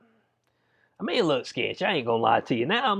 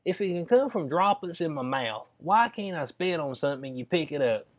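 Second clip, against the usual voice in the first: higher, whiny protest at the nurse; mock complaint; 4 semitones higher than usual. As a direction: squirm through a nose swab. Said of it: "I was like".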